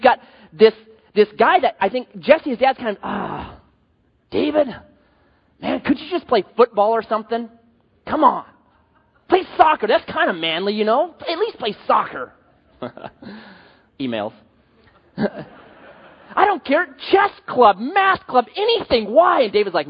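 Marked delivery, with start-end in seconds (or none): 3.0-12.3 mock-pleading dad, pitch rising on play soccer; lightly voiced frustrated father begging his son; hint of a whiny dad; exasperated dad. Pastor voicing David's exasperated dad. 15.2-19.4 high, slow whiny plea through laughter; hammed-up desperate father, voice climbing high; laughing, high-pitched mock dad begging; pleading dad.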